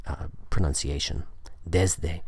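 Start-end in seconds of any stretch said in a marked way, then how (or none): 1.7-2.2 "Desde" with S turned to Z before D; voiced S. Shown as a demonstration. Teacher summing up the rule, "Desde" with a voiced Z sound. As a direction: buzz the S in "Desde". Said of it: "so the S changes to a voiced".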